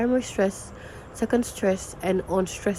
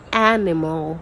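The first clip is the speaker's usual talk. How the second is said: "animal" leaning hard on the first a; front-stressed "animal" as a pronunciation model; first-syllable stress; 3 dB louder than usual. Shown as a demonstration. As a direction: stress the start of "animal", the other syllables light. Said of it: "the first syllable".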